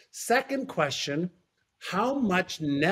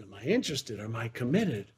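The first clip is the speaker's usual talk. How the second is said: pondering; 8 semitones lower, 5 dB quieter than usual. Retold or imitated. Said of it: "racking my brain".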